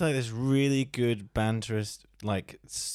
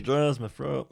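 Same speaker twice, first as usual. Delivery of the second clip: put-on old man; 4 semitones higher, slower than usual.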